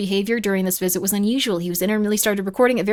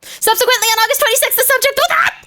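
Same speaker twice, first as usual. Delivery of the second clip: squeaky hiccuping read; words jolted by hiccups; 8 dB louder than usual. Real, not acted. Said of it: "I got the hiccups again".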